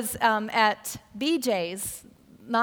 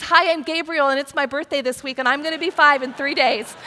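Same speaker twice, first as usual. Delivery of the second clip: a hint of a proud five-year-old, louder; eager little boy; 4 dB louder than usual. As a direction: announce it like a proud little kid. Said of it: "And Gabriel says".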